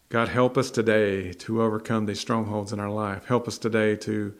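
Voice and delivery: closing prayer. Acted.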